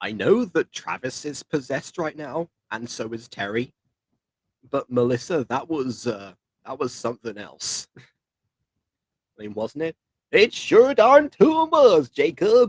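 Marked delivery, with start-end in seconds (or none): 10.3-12.7 very high, slow, put-on southern drawl. Playing a made-up persona who answers Jacob, in a put-on southern accent. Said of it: "random persona I just made up that has the southern accent".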